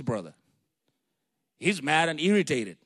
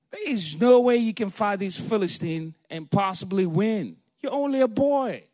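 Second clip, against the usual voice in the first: louder, emphatic rebuke; dismissive reply; 3 semitones higher, 7 dB louder than usual. Acted. King Saul dismissing young David, emphatic rebuke. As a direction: rule it out forcefully. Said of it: "Saul replied".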